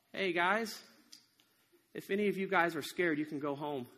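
hesitant, sheepish announcement dropping off low; nervous. Acted. Gideon addressing his men on trembling knees, nervous. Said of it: "with trembling knees said".

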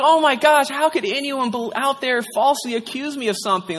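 retold burst of hurt disbelief; dismayed people pleaser. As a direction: protest like someone wrongly accused. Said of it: "I'm a self-recovering people pleaser".

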